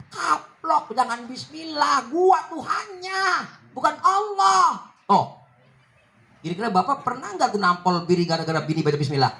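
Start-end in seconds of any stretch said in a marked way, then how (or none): 2.1-4.9 slow, proud shouted boast; arrogant Pharaoh. Acted. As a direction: drag it out like a haughty king. (Firaun sombong, lambat dan lantang)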